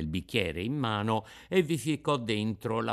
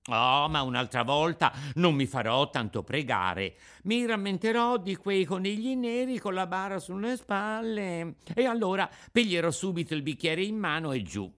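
put-on higher, earnest boyish promise; Pinocchio, repentant puppet child; 7 semitones higher than usual. Puppet promising the Fairy to drink, earnest.

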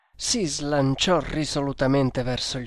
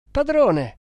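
high, loud call of "Padrone!"; shouting; 12 semitones higher, 7 dB louder than usual. A narrator's reading. Servant running up, calling his master loudly. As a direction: yell for your master from a distance. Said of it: "gridò Kammamuri".

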